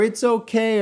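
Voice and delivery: mock high breezy reassurance; careless dog owner. Mocking owners who shrug off their loose dogs.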